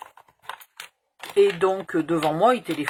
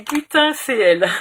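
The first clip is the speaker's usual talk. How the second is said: surprised exclamation; 7 semitones higher, 10 dB louder than usual. Retold or imitated. Recognizing the beautiful doctor.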